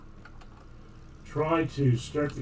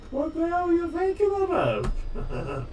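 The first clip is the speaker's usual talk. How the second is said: slow mock exasperation. Repeated slower, silly voice.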